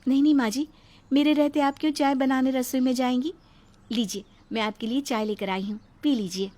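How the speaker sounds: lightly voiced anxious daughter-in-law; meek bride. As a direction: hurry to please the mother-in-law. Bride eager to please.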